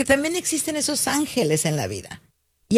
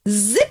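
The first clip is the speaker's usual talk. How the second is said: zip imitado. Retold or imitated. Imita el silencio de Melania.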